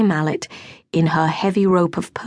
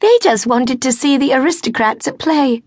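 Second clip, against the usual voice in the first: roar; 6 semitones higher, 3 dB louder than usual. A narrator's reading. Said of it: "roared a horsey girl".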